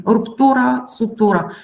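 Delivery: "ruptura, sutura" with stress on TU; second-last syllable stressed. Shown as a demonstration. Teacher showing the ura suffix, stress on TU. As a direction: lean on TU in both "ruptura" and "sutura". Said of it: "the accent is also there".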